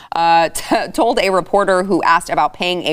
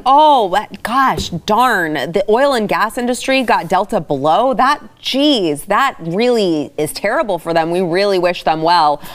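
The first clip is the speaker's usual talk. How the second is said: hammed-up dismay in a higher voice; mock sympathy; 3 semitones higher than usual. Host voicing Green New Deal party on oil industry, mock sympathy. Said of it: "is just kinda like".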